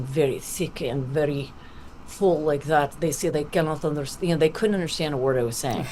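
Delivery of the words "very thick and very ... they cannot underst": very thick, full Russian accent. Shown as a demonstration. Actor showing her overdone stage accent, thick Russian. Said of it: "my Russian accent".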